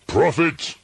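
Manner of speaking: high, loud desperate call; frantic cry. A narrator's reading. Narrator pleads with the raven, high and loud. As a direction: hurl the word at the bird.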